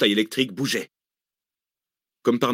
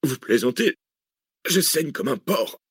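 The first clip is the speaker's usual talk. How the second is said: higher, drawn-out complaint; indignant protest; 4 semitones higher, slower than usual. A narrator's reading. Wounded Arsène protesting to Cécile, indignant. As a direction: protest the injury indignantly, stretching the words.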